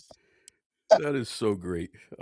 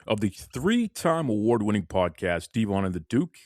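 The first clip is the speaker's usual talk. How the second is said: podcast host intro; 4 semitones lower than usual. Acted. Host welcoming listeners and introducing Devon, hyped intro. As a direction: build up the guest like a ring announcer.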